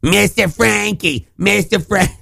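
high, slow hailing voice; dad's Mister greeting. Retold or imitated. Cohost mimicking friend's dad, high drawn-out call. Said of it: "he calls everybody by Mister".

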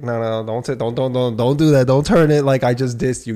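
telling off a friend at a wedding, firm; retold scolding. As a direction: shut him down, getting firmer. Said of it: "I was like".

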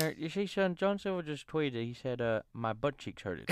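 lightly imitated wrestling commentator. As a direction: report it like an old-school commentator. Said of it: "Imagine J R going".

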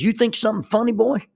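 loud mocking threat; bully's taunt. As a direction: lean over the table and taunt the boy. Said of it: "And he says".

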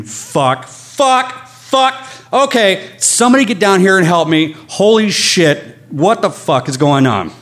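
high-pitched mock scream, not full volume; retold screaming. Injured rider calling for help after the crash, retold scream. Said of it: "then I just start screaming".

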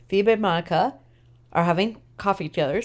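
talking through a big yawn; words pulled out of shape by a yawn. Real, not acted. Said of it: "Sorry, big yawn 'cause I'm tired".

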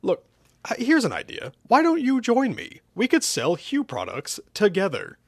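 high, eager sales appeal; hopeful, high-voiced proposal; pleading pitch. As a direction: pitch it high to win him over. Villain pleading a partnership.

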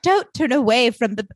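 Lily pleading with her son, theatrical; odd put-on Lily voice. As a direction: strike a grand pleading pose. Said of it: "I don't know what that voice is".

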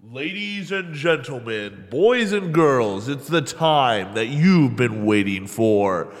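slow, drawn-out announcer build-up; booming kids show opener. Acted. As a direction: announce it like a game show host. Announcer intro for Reggie Watch.

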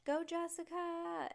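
high, slow crowd cheer; cheering yell. Acted. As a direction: chant it like fans in the lanes. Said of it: "everybody yelled".

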